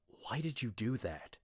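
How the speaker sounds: whispered question; bewildered whisper. Acted. Rat whispering to Glawin, bewildered. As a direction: breathe it out in confusion.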